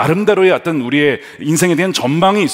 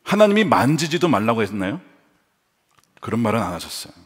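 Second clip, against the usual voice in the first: ordinary delivery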